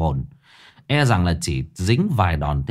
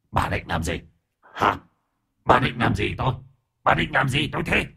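shrill rising ghost voice, climbing higher; sharp-tongued ghost; 4 semitones higher, 3 dB quieter than usual. A narrator's reading. Frozen ghost snapping at the aunt, defiant and rising. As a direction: spit the questions back defiantly. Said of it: "ngoa ngoắt chửi".

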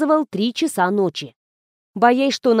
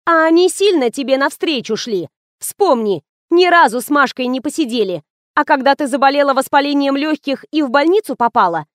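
persistent scolding; 4 semitones higher than usual. Acted. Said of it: "не успокаивалась Фатима".

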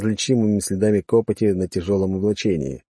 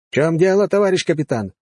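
puzzled; 8 semitones higher, 3 dB louder than usual. Acted. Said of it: "недоумённо воззрился".

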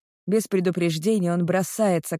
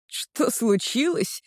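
higher, slow mocking echo of the question; incredulous scoff; 6 semitones higher, much slower than usual. Girl echoes her boyfriend's question, incredulous slow scoff. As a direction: scoff back at him in disbelief. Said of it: "Я недоверчиво усмехаюсь".

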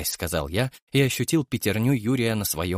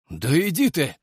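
surprised; 6 semitones higher, 3 dB louder than usual. A narrator's reading. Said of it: "удивился Юрий".

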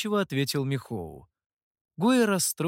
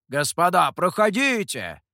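street hawker; 3 semitones higher, 5 dB louder than usual. A narrator's reading. Another stall owner calls to customers. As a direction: call them in. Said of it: "зазывал другой".

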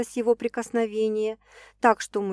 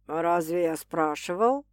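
ironic; 3 semitones lower than usual. Acted. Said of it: "иронично уточнил Стас".

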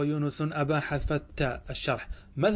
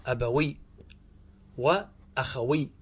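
drawn-out model word; slower than usual. Shown as a demonstration. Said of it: "فتقول".

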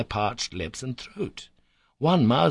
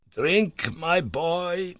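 uncle's gentle offer; 8 semitones higher, much slower than usual. A narrator's reading. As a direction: urge him gently to drink. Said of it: "he said".

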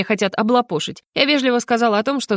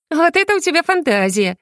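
giggling; 8 semitones higher than usual. Acted. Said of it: "хихикнула Соня".

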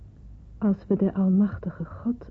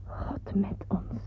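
much softer and slow, leaning on met; slow reverent whisper; 6 dB quieter, much slower than usual. Acted. Alone in bed repeating the motto, slow hushed whisper. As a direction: savour each word like a vow. Repeats the three words to herself.

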